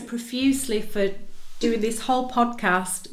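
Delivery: stuffed-up nose, sinuses blocked; talking through a blocked nose. Real, not acted. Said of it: "sounds like I've had a peg on my nose".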